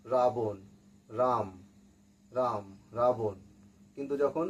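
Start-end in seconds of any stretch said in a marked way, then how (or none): 0.0-3.4 র in রাবণ and রাম with the tongue forward. Shown as a demonstration. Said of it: "জিভটা সামনের দিকে আসে". (রাম, রাবণ-এর র জিভ সামনে এনে উচ্চারণ)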